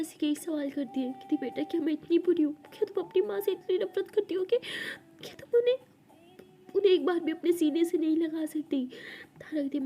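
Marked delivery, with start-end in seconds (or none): 1.4-8.9 put-on a mother begging her child not to hate her; tearful pleading. Mother begging daughter for a hug, higher tearful plea. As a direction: pitch climbing higher into a desperate plea.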